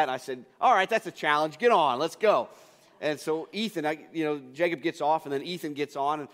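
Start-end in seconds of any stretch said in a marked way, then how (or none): 0.6-2.5 louder, game-on challenge; bold acceptance. Retold or imitated. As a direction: rise to the dare with gusto. Dad taking up a challenge.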